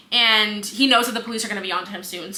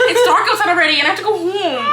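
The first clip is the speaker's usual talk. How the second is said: louder and higher, half laughing half whining; nervous laughing; 11 semitones higher, 8 dB louder than usual. Real, not acted. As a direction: laugh through the real jitters. Nervous after scary story talk.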